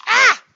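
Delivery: sudden high yelp of frustration; frustrated yelp. Real, not acted. Teacher at the board, exasperated, high sharp yelp. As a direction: let out a sharp high cry.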